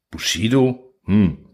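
a hint of a distracted lion, murmured; lightly voiced lion, half listening; lion muttering over his cards, distracted; absent-minded lion's grumble. A narrator's reading. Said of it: "brummt der Löwe zerstreut".

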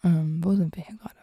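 quick unvoiced whisper. Real, not acted. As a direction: whisper it to yourself. Confused whispered aside.

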